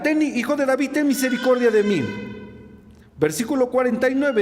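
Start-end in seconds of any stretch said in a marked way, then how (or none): 0.0-2.0 higher, insistent imitated cry; raised-pitch pleading, retelling a shout; mild retold shout. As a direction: call out for mercy more urgently, short of shouting. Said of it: "Y grita".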